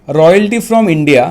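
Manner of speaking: slow, deliberate dictation; dictating. Real, not acted. Teacher dictating the second item, slow dictation. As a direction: spell it out phrase by phrase for note-takers. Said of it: "मैं dictate कर रहा हूँ".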